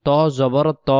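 ত said full and heavy; heavy thick ta. Shown as a demonstration. Teacher repeating the heavy ত, thick. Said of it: "ত অক্ষরকে মোটা আওয়াজে পড়তে হবে".

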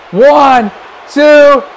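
loud, punched count; shouted pin count. Real, not acted. Commentator counting the final pinfall, loud shouted count. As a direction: belt out each number.

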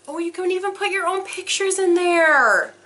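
a happy realisation; real delight; delighted discovery. Real, not acted. Discovering the locket opens.

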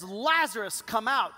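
commanding call to Lazarus; exclaimed command. Retold or imitated. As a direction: say it with an exclamation point. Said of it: "there's an explanation point after".

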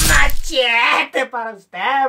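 long drawn-out, hammed-up call; catchphrase call. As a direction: stretch out MACHETE like an announcer. Comic catchphrase called out. (pregón cómico, alargado)

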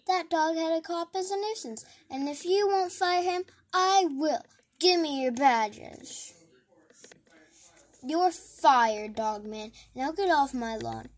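outraged mayor yelling at the cop; angry mayor shouting. Acted. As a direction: bark the firing at the cop. Mayor fires Dog Man.

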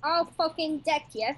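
cute tough threat. Acted. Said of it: "Oh, that's adorable".

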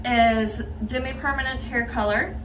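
talking with retainers in; slightly lisped retainer speech; wearing a retainer. Real, not acted. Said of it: "Yes, I sound funny. I have my retainers in".

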